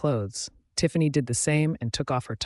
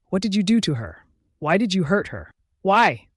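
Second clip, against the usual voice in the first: loud, higher, tearful demand; crying accusation; 6 semitones higher, 5 dB louder than usual. A narrator's reading. Lorraine confronting Marcus, crying angrily. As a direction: hurl the questions at him. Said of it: "Lorraine asked while crying".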